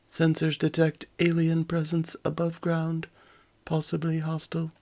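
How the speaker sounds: high, clipped robot report. Acted. Robot Soda reports sensors.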